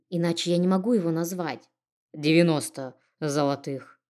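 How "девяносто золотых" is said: hoarse, slow correction. Acted. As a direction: say it hoarsely, dragging slightly. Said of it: "как-то хрипло поправил сам себя мэр".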